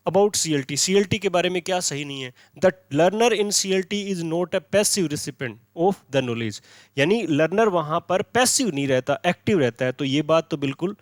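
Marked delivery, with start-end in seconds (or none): 2.6-6.6 each English word read out very slowly; slow, careful read of the answer option; slow dictation. Shown as a demonstration. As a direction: dictate it so students can follow. Reads the option aloud slowly.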